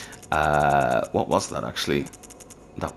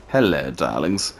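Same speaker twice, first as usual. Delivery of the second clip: breathy vintage purr; 3 semitones lower, slower than usual. Pretend. Greeting an enemy, teasing.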